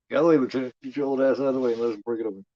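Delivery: mock firefighter yelling; shouting firefighter. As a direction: bark at the old man to move. Voicing firefighter.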